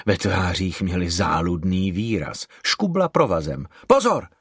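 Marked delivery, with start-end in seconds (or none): 3.9-4.3 high, sudden warning cry; výkřik. A narrator's reading. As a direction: cry out a sharp warning, pitched up. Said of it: "vykřikla". (varovný výkřik)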